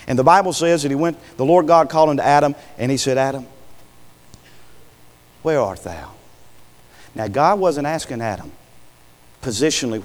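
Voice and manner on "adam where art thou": calling out. Retold or imitated. God calling to Adam.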